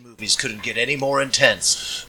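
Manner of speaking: trailer voice. Pretend. Parody movie trailer voice.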